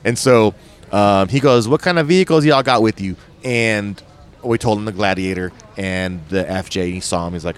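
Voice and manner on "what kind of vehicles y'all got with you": lightly put-on Southern accent, pitched up; a touch of Tennessee twang. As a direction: imitate a friendly Southerner, lightly. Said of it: "Huge Southern accent".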